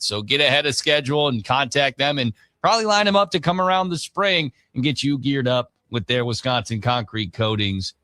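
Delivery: radio ad read. Acted. Sportscaster reading concrete coatings sponsor spot, brisk radio ad read. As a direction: sell it like a live radio spot.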